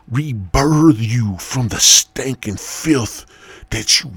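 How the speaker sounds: a self-crowned king booming a decree at his new subjects; royal proclamation. Acted. New king proclaims to the sinners, slow booming decree. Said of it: "And I'm like".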